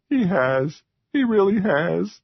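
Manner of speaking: a small creature eager to be forgiven; high eager troll. A narrator's reading. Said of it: "Jocko said".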